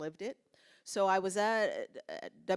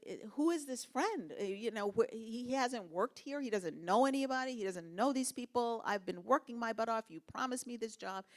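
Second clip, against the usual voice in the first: retold shocked protest; 5 semitones higher than usual.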